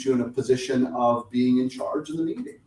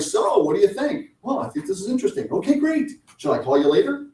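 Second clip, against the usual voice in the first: higher, mock-timid fumbling questions; mock salesperson avoiding the close; awkward non-ask; 8 semitones higher than usual. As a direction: dodge the ask nervously. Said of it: "They'll just be like".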